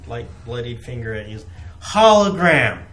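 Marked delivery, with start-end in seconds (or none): 1.9-2.8 loud, high outraged exclamation; acted indignant yell; incredulous shout. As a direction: throw the word back in disbelief. Acted retort, shaking finger at player.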